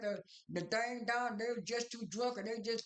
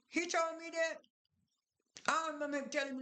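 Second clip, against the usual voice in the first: retold surprised question, pitch jumping higher; shocked question; 6 semitones higher than usual. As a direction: gasp it out as a shocked retelling. Retelling King's shocked reply.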